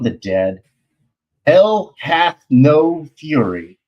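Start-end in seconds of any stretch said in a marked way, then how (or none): 1.5-3.8 slow, louder and higher trailer boom; dramatic tagline. Acted. Pitching his comic, booming the tagline. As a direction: belt it like a movie poster.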